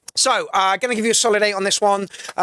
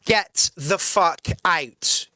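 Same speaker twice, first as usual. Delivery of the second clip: very slow, deliberate threat; lightly retold slow hard order; slow menace; 2 semitones lower, much slower than usual. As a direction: drag each word out as a warning.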